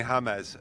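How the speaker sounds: "James" said Spanish-style as HA-mez; Spanish-style name. Retold or imitated. Man repeats his friend's nickname for him, Spanish-style "James". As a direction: say "James" with an h and two syllables, HA-mez. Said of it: "a Hispanic look".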